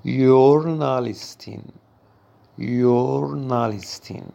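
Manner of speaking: یورنالیستین with a y start and a clear -in ending; German feminine ending. Shown as a demonstration. Teacher stressing the -in ending for learners. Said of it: "به معنای روزنامه نگار زن هست".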